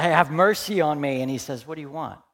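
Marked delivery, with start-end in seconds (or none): 0.0-1.2 raised-voice plea for mercy; crying out. Acted. Blind man crying out to the Son of David, loud plea. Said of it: "the one I've cried out". 1.7-2.2 soft, unhurried question after a cry; quiet question. Acted. Jesus to the man who cried out, quiet question.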